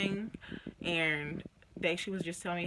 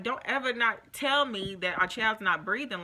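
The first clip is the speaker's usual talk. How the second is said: raised, louder, sharply upset; upset scolding; 5 semitones higher, 6 dB louder than usual. Retold or imitated. Mother scolding the father about the baby, loud and upset. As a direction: tell him off, shaken and loud.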